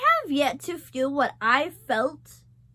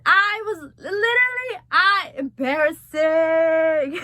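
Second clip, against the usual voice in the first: half-crying; 3 semitones higher, 5 dB louder, slower than usual. Real, not acted. Crying recalling movie.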